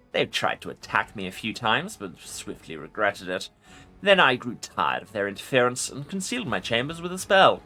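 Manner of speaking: commanding undead lich voice; ancient rasping undead king. Acted. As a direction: speak as a proud ancient lich. Lich voice continues.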